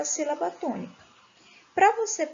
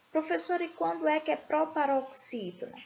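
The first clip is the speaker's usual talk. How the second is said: higher-pitched imitation of a pupil asking; pupil's question; 4 semitones higher, 3 dB quieter, faster than usual. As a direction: lightly play a pupil calling on the teacher. Voices a pupil asking the teacher.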